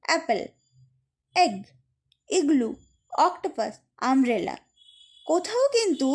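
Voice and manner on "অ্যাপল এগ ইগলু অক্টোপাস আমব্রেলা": short vowels in অ্যাপল, এগ, ইগলু, not dragged. Shown as a demonstration. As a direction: say অ্যাপল, এগ, ইগলু simply, vowels never stretched. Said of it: "drag করছি না বা টানছি না". (অ্যাপল, এগ, ইগলু না টেনে হ্রস্ব স্বরে)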